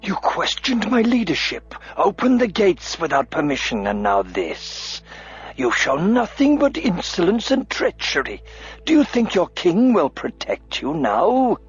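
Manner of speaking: high, raging tirade; furious accusation. A narrator's reading. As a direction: berate the dwarf. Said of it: "turned on Auric furiously".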